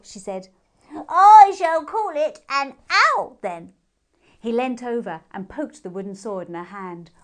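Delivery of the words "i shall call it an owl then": high, loud, slow pronouncement; grand hare naming. A narrator's reading. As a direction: declare it like a royal decree.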